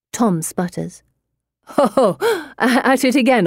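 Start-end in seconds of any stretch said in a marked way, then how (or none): 1.8-3.5 scoffing laugh, teasing; mocking laugh. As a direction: laugh it off with scorn.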